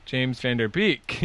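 "James Van Der Beek." drawn out very slowly, each part weighted; mock slow emphasis on the name; odd name emphasis. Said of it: "where'd I teach you to put the emphasis on my".

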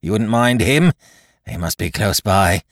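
loud, high, building tirade; crying out in rage. A narrator's reading. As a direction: blind pirate chief's frantic outburst. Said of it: "he cried".

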